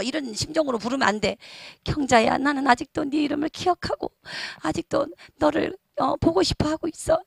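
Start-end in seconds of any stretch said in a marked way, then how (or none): 1.8-7.2 longing. Shown as a demonstration. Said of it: "이런 애타는 심정으로 불러야 돼요".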